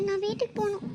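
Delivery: high, tearful plea. Acted. Crying Sakthi asking to go home, tearful. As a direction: plead in a small crying voice. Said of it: "சக்தி ஏன் அழுகுறாங்க?".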